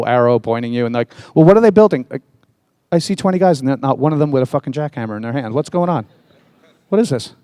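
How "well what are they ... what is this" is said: incredulous complaint. Retold or imitated. Mocking construction crews.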